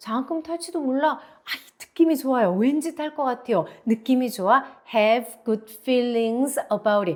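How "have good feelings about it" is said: strongest stress on feelings over the rest. Teaching an expression for a good feeling: strongest stress on feelings. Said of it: "제가 뭐 강조해서 발음했어요. feelings".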